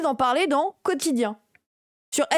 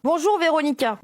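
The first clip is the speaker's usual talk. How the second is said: reading Ruffin's greeting; 3 semitones higher than usual. Acted. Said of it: "dit Ruffin".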